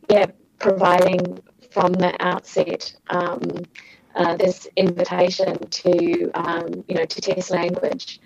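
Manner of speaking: choppy breaking-up audio; call dropping out. Real, not acted. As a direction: voice cutting out on a bad line. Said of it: "you're breaking up a little bit".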